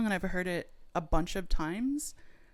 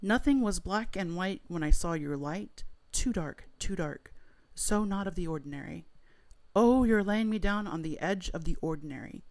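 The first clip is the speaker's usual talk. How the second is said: dramatic poetry reading of half-remembered lyrics; spoken word. Pretend. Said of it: "perform a spoken word poem of your version".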